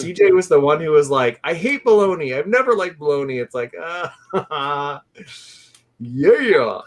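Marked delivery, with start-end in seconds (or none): 1.4-3.4 mock complaint. Imitating friend's complaint about bologna.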